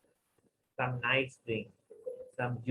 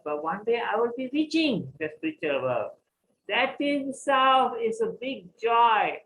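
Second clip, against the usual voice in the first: joyful conviction; 5 semitones higher, 3 dB louder than usual. Acted. Cobbler explains his joy.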